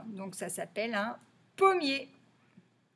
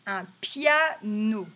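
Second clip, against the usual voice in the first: piano slowly split into PIA and NO; syllable by syllable; 4 dB louder, slower than usual. Shown as a demonstration. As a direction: sound out piano in measured beats. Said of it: "chercher si on entend".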